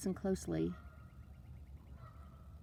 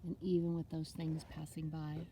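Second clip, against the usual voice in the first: unhurried meditation voice with long pauses; guided meditation; 4 dB quieter than usual. Acted. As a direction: talk them gently through it, letting each phrase settle. Leads a water meditation.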